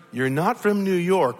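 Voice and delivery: lightly imitated Scottish accent; a hint of an old Scottish woman. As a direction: retell it with a touch of Scottish accent. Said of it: "with her thick Scottish accent".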